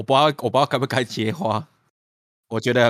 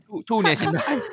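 much higher festive greeting; cheerful new year wishes; 10 semitones higher than usual. Acted. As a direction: sing the wish out up high. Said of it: "先跟大家拜个早年".

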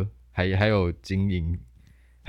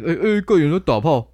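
hammed-up crowd yelling, pitched up; mock excited shout; 8 semitones higher, 5 dB louder than usual. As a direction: mimic a rowdy onlooker, loud.

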